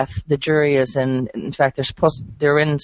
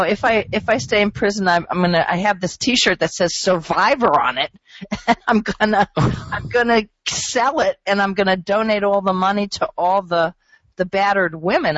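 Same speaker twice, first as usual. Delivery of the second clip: lightly voiced, higher mock of a self-absorbed defendant; 5 semitones higher than usual. Host mocks the defendant's closing plea, higher and mocking. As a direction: parrot her sales pitch with a sneer. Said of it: "she pulls out a T-shirt that says".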